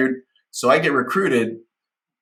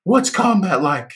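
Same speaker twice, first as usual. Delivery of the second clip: put-on drunk naive question; 8 semitones higher, slower than usual.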